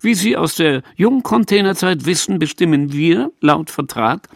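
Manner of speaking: high, smug triumphant voice; triumphant smile. Acted. Peach answers Renate, smug and triumphant. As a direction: gloat with a smile. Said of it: "lächelte triumphierend".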